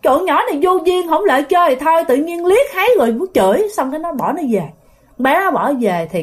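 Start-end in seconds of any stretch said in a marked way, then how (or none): 0.0-3.7 put-on high-pitched miffed kid complaint; retold annoyance. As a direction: imitate annoyed children grumbling. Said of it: "Thì mấy đứa này mới tức". (giả giọng bực tức)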